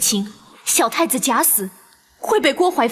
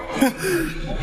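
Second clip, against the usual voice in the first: eerie wailing laugh; ghostly laugh; 3 semitones higher, 4 dB quieter than usual. Acted. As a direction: let out a spooky cackle.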